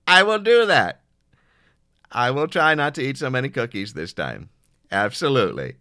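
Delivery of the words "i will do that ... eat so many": loud chipper. Acted. Loud chipper phone reply.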